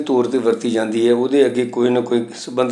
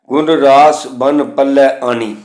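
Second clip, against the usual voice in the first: slow gurbani recitation; slower than usual. Shown as a demonstration. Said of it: "ਨੰਨੇ ਦੇ ਥੱਲੇ ਵੀ ਇਹ ਚਿੰਨ੍ਹ ਹੈ".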